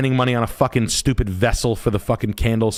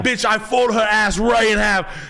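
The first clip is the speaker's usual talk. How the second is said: imitating buddy; 11 semitones higher than usual. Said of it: "He's like".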